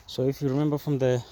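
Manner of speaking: breathless, rushing the words; talking while out of breath. Real, not acted. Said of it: "let me catch my breath".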